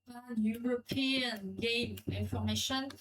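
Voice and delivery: slow English with a French accent. Real, not acted. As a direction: read out the English name slowly, French accent showing. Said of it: "mon magnifique accent anglais".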